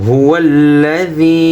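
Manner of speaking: هو الذي slow, the ذ voiced between the teeth; slow model of هو الذي; tajweed pronunciation. Shown as a demonstration. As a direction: stretch هو الذي with a clear voiced ذ. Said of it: "আমরা অনেকে বলি হুয়াল".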